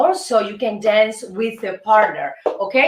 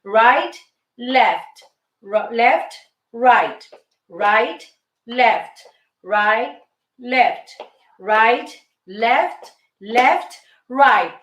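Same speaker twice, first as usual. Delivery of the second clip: calling the steps; 2 semitones lower, much slower than usual. Shown as a demonstration. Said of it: "Let's start with these basic steps".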